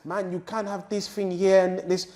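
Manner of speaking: the straight-talking boss questioning him; imitating the boss. Manager scolding about too many posts.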